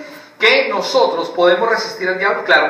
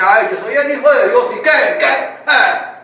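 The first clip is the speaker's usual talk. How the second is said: louder, higher, taunting "so what"; mock cocky Jesus; 4 semitones higher, 5 dB louder than usual. Mocking a wrong version of Jesus answering Satan, cocky and loud. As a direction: sass Satan with a brag. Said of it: "No, él no dijo eso".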